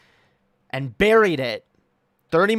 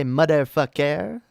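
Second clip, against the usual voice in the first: slow, drawn-out mock motherfucker; lightly voiced drawn-out curse; imitating a voice; slower than usual. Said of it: "I do the voice, and I say".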